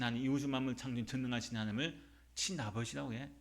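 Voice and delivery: acted scolding rebuttal, mildly outraged; indignant. Preacher voices Jews insisting Joseph is the father, mildly indignant. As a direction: argue back in mock indignation. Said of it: "막 노발대발하는 거예요".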